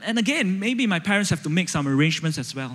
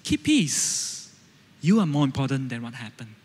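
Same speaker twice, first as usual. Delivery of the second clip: inner reminder; 3 semitones lower than usual. Shown as a demonstration. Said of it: "just think".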